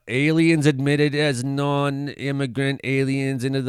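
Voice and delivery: slow halting read of tiny text; squinting to read small print. Real, not acted. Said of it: "I can't read the small print".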